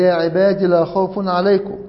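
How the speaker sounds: short ي in عبادي, no lengthening; short final vowel. Shown as a demonstration. Teacher citing the verse's first reading, short final vowel on عبادي. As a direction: say عبادي with a brief final i, moving straight on. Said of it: "وبها قرأ في الآية السابقة".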